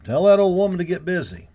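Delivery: loud, high call. A narrator's reading. Cowboy shouting a jibe about the cook, loud call. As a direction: yell the jibe across the yard. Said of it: "a cowboy called to him".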